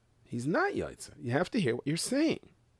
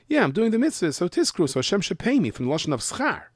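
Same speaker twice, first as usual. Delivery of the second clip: mock reward-seeker; 6 semitones higher than usual. Voicing someone expecting payment for mitzvah.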